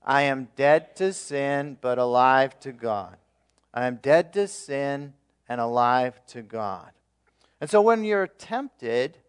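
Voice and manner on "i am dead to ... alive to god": "I am dead to sin" drawn out slowly, "alive to God" falling; slow group recitation. Shown as a demonstration. Pastor leads the church in slow unison recitation. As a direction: speak it slowly with the congregation in unison. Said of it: "Let's practice saying together".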